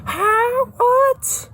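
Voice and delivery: can't believe it; Dylan finds the family still poor, in startled shock; shocked disbelief. Acted. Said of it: "Dylan's like".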